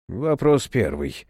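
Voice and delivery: mildly flat, slow questioning; a hint of cold indifference; indifferent. Black-haired man interrogating Serafim, coolly indifferent. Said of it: "равнодушным голосом".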